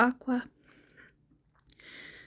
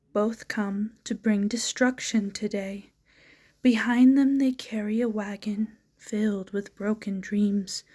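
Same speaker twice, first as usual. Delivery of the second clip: deliberate, measured verse recital; poetry reading. Acted. Poet reading viewers a poem about two destructive mules, measured recital. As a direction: recite line by line, landing on the key words.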